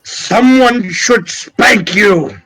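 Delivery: slow, stretched-out wizardly scolding; indignant parting shot. Acted. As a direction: scold him haughtily, drawing it out. Wizard's parting insult, in character.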